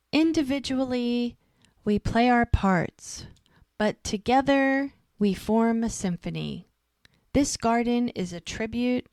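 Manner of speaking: measured, lifted speechmaker delivery; public speech. Retold or imitated. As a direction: read it out like a town ceremony address, with deliberate pauses. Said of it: "Hope is there doing her speech".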